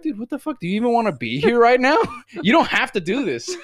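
high, loud exasperated "dude what the fuck"; exasperated outburst. Retold or imitated. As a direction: blow up in disbelief at your cohost. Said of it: "I'm gonna be like".

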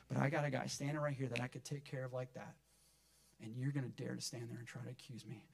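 softly spoken, restrained indignation; contained anger. Retold or imitated. Jesus rebuking hypocrites who would accuse him, restrained anger. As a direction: imitate anger held in, voice kept down. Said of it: "He was so mad".

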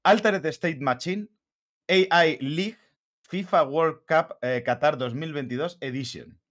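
slow, deliberate read without pausing for breath; in one breath. Shown as a demonstration. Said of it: "a ver si puedo hacerlo sin respirar entre medias".

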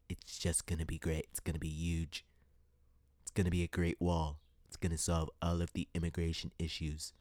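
hint of a Trump stump-speech promise; Donald Trump voice. Mocking politicians to her viewers with a mild Trump impression. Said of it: "I'm gonna do my Donald Trump voice".

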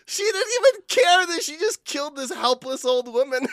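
high, loud laughing disbelief; cracking up. Real, not acted. Game master recounting a player's callous rogue, cracking up. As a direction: squeal it through real laughter.

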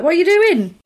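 sudden high yelp of surprise; startled. Retold or imitated. Trapped in the cupboard, startled yelp. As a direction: shrieks it, caught off guard. Retold film scene, startled shout.

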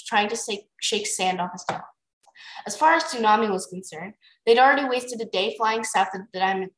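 easy read-aloud narrator; story narration. A narrator's reading. Reader telling friend a dragon story, narrating. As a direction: narrate it like a bedtime chapter.

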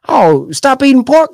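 high, slow mock command; a hammed-up preacher voice; mock minister. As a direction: ham up the minister's order. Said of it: "it's easy when we can".

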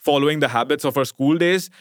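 ordinary delivery, nothing marked

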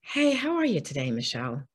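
sincere, caring greeting that really asks; really asking. Shown as a demonstration. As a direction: genuine check-in. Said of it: "But when you really say".

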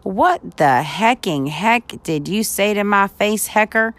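hammed-up angry challenge; mock outrage. Joking at co-host with new slang, mock-angry shout.

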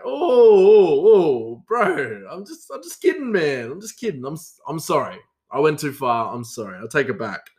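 loud high "oh" dropping into hasty apology; mock panic, placating, settling down by the end; alarmed backpedalling. Apologising to coworker with knife, mock-alarmed placating.

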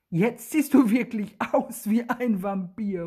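understated storybook call. A narrator's reading. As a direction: exclaim it to a friend in amusement. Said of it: "ruft er".

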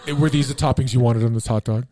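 lightly put-on illusionist, amused; Chris Angel. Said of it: "your Chris Angel impersonation".

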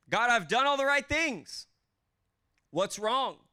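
rising exasperation that peaks in a cry to God; frustrated prayer. Acted. Hurt believer pleading with God, building to an exasperated cry.

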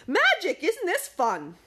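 high, loud call. A narrator's reading. Dwayne calling to Magic mid-ride, a high loud call. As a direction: shout over the wind.

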